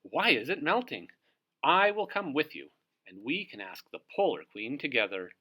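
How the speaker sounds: an eager seabird offering to come; lightly voiced small bird; Dovekie Lovekie's voice. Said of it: "squawked Dovekie Lovekie".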